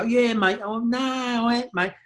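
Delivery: high-pitched put-on London accent; mock Cockney. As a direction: fake being a Cockney lad. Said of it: "you can't go".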